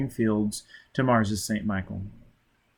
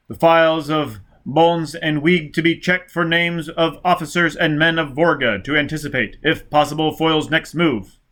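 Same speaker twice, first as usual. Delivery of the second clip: loud, higher announcer reading out orders; official broadcast voice; 4 semitones higher, 4 dB louder than usual. Acted. Police radio bulletin announcing the war crisis, loud and clipped. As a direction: bark out the emergency bulletin.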